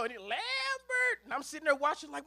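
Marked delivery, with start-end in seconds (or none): 0.2-1.2 high mock scream of a name; mama screaming. Mother sheep calling her son from the wolf, high mock scream. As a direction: cry out for your child.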